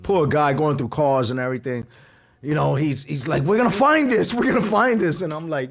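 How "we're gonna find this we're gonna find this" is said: raised, higher-pitched retold insistence; determined friend. Friend searching the block for lost wallet, insistent. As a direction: imitate a friend urging on the search.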